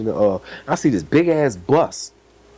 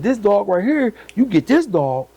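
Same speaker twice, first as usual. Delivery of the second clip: higher voice pitching the dog; imitating the breeder; 7 semitones higher than usual.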